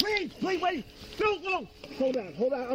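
short panicked breaths, hyperventilating; gasping, hyperventilating while pleading. Real, not acted. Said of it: "I'm hyperventilating".

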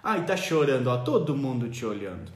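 lightly voiced mom tutting at a crying kid; mother whispering shame at her child in public; shaming mother. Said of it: "mamãe dizia".

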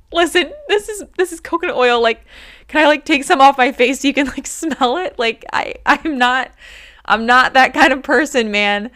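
very high, fast, desperate explaining; frantic retold pleading. She insists to the cop it's only coconut oil, high, fast and frantic. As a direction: rush to convince the cop, voice squeaking high. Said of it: "like, crying and".

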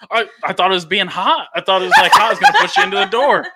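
laughing, sheepish excuse, speeding up. Retold or imitated. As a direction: giggle through a lame excuse. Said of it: "And I go".

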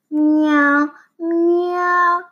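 high, squeaky cat meows, rising; mock meows. Big brother mocking fallen goalie with high cat meows. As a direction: tease him with cat noises. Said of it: "he thinks this is hilarious".

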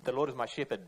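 firm, certain "The Lord is my shepherd" with a falling end; confident. Shown as a demonstration. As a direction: state it with total assurance. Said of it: "there's a real confidence there".

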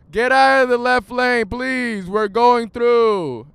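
high, loud call with drawn-out final words; exasperated hollering. Real, not acted. Driver ordering a car out of the left lane, exasperated hollering. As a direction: holler to clear the road ahead.

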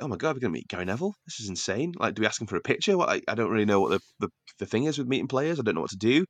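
excited babble. Retold or imitated. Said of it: "very excited about this".

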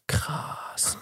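slow, low-key, stretched "krass"; drawn-out KRASS. Shown as a demonstration. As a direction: stretch the vowel of "krass" softly. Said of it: "dann kannst du halt oft so".

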